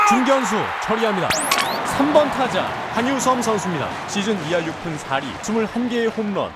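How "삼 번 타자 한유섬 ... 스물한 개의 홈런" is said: echoing stadium announcer. Acted.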